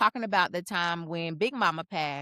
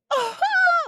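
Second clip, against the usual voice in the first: imitated cry; 7 dB louder than usual. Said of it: "a cry with a sound".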